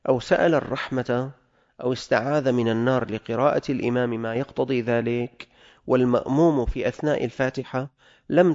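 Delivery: loud, measured reading of classical Arabic; formal text reading. Acted. Teacher reads the fiqh text to students, formal and emphatic. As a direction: read the law text out firmly, phrase by phrase.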